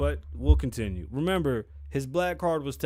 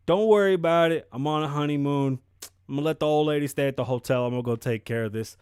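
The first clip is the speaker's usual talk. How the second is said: loud; 6 dB louder than usual. Retold or imitated. Dog's honeymoon reply, loud.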